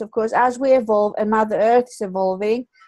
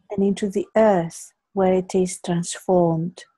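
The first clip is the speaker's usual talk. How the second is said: guided meditation. Acted. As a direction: guide them gently into calm. Leads a green meditation.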